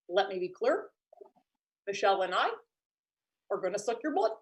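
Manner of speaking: lightly voiced vampire Obama, low and soft; a hint of a presidential vampire. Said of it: "If he was a vampire".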